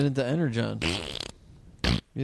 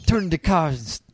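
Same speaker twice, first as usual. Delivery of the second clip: Optimus Prime impression; 2 semitones higher than usual. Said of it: "can I do my impression of Optimus Prime?".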